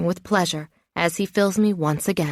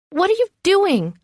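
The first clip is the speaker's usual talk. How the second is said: much higher and louder, delighted shriek; yelling but clearly thrilled; happy yell; 12 semitones higher, 3 dB louder than usual. Acted. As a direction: squeal it in glee. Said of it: "I yell".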